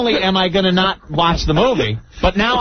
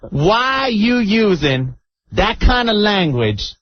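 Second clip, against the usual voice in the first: scolding grandmother; 3 semitones higher, slower than usual. Retold or imitated. Acts out offended grandmother's scolding.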